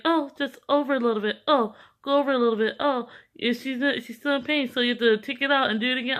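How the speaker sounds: lightly voiced supervisor hurrying the student along; instructing doctor.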